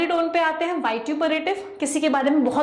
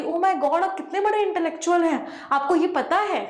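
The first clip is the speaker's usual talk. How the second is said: sarcastic; 4 semitones higher than usual. Shown as a demonstration. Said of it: "तो इस तरह की टोन कैसी होती है, सैटायरिकल टोन".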